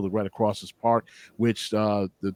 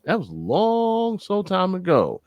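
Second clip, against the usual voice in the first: straight-faced; 6 semitones higher than usual. Retold or imitated. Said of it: "said with a straight face".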